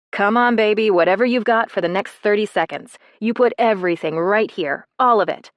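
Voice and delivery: loud, pushing encouragement; urging coach. Acted. Coach urging the girl at the bag, loud. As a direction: drive her through the last seconds.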